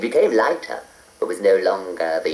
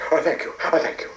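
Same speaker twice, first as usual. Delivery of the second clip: gasping; 7 semitones higher, 3 dB quieter, much faster than usual. A narrator's reading. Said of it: "gasped the snail".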